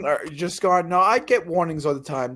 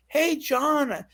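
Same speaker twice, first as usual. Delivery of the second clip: 1 mimicking the boss; 3 semitones higher than usual. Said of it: "the guy that fired me told me".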